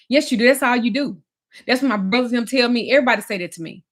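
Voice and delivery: imitating a partner's heated accusations; retold angry accusation. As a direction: keep hammering the blame. Retold quarrel with Damon.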